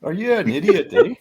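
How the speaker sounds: passive-aggressive demo. Shown as a demonstration. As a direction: playfully insult them with a Canadian tag. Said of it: "A makes it passive aggressive".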